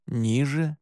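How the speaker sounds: ordinary delivery, nothing marked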